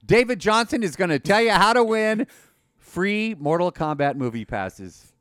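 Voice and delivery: booming game show host voice; game show announcer. Pretend. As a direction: announce it like The Price is Right. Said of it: "like they do on The Price is Right".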